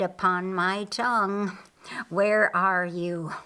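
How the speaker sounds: menacing villain voice, savoring each word; gloating Lucifer. Acted. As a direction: Lucifer stalking his prey, relishing the hunt. Lucifer hunting Jesus.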